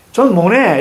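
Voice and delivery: "모네" drawn out slowly with an n sound; slow imitation of a student's "mo-ne" for "mo-tae"; student's mispronunciation. Teacher mimics students from the provinces, "모네" slowly with an n. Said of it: "이렇게 발음해요".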